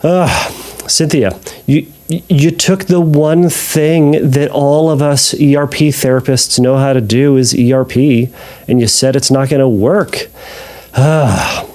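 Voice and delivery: mock-exasperated, with heavy sighs; sarcastic. Real, not acted. Therapist teasing a listener who rejected his one method, sarcastic. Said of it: "I'm being sarcastic here".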